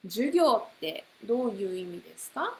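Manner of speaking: 授業ってどういう意味ですか said quickly; fast model question. Shown as a demonstration. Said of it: "you can put any word".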